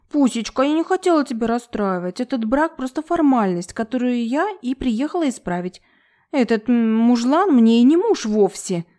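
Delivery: simpering wife voice. Acted. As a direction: coo it like a spoiled wife. (сюсюкающий голос)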